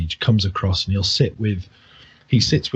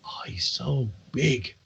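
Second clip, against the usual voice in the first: put-on adoring drunk; 3 semitones higher, 5 dB quieter, slower than usual. Drunk old man adoring the orc.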